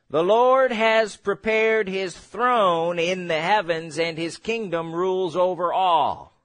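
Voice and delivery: slow, measured Bible reading; scripture reading. Acted. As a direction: read the verse out solemnly, drawing out the words. Reads scripture aloud.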